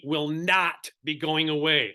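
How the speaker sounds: slow, deliberate "not", set apart; emphatic stress on NOT. Real, not acted. Agent trainer assuring viewers about buyer's agency, emphatic "not". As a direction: lean hard on "not", drawing the phrase out. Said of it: "Let me say that again".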